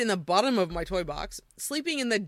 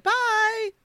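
a hint of a Furby voice; 13 semitones higher, 4 dB louder than usual. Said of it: "and it said".

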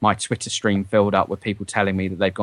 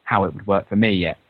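transistor radio. Real, not acted. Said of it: "the quality of your voice has gone all sort of transistor radio-ish".

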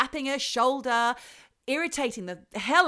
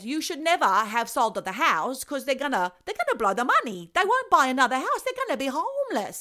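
put-on rising, louder Italian-accented worry; agitated Italian ghost; 4 semitones higher, 6 dB louder than usual. Ghost fretting to the agent in an Italian accent. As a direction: fret in a loud Italian accent.

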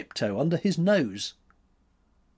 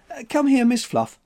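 high, louder call to a kitten; 12 semitones higher, 6 dB louder than usual. A narrator's reading. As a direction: call the cat over. Calling the kitten.

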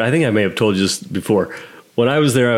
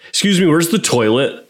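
put-on plain-spoken American tourist accent; 5 semitones higher than usual. American tourist asks in the same shop, American accent. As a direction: imitate a tourist's ordinary American accent, a bit higher. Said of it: "some American tourist came in".

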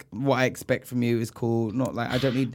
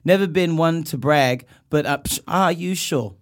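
impression of a singer; 3 semitones higher than usual. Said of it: "trying to talk like a singer".

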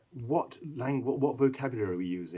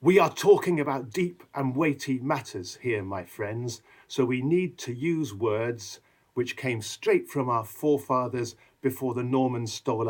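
a lightly voiced earnest old English speaker; mock-weighty plain English; Anglo-Saxon plain speech; slower than usual. Shown as a demonstration. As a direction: say it plainly and solemnly. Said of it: "if I give you an example here".

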